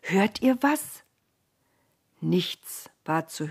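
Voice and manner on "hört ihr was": hushed listening son. Acted.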